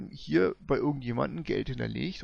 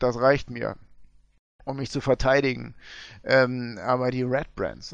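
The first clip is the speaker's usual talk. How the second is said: gold prospector; 3 dB louder than usual. Acted.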